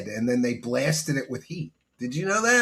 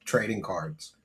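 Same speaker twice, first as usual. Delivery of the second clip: lightly acted confession, lower and softer; husband confessing to wife; 5 semitones lower, 4 dB quieter than usual. Husband telling his wife about bankruptcy, lightly acted low confession. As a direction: break bad news to a wife, voice dropping. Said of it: "having to tell your wife".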